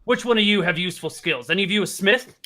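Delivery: loud, gruff goblin boss; hobgoblin captor. Acted. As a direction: demand it like a rough jailer. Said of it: "And then says".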